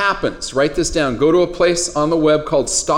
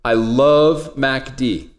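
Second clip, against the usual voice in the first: slow, lightly deepened soul croon; like a deep soul singer; 3 semitones lower, much slower than usual. Acted. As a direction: stretch it out with a hint of a deep soul singer. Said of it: "We'll see if I really get deep on it".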